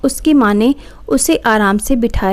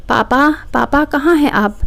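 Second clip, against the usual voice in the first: shouting; 4 semitones higher than usual. A narrator's reading. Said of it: "ज़ोर से चिल्लाते हुए बोली".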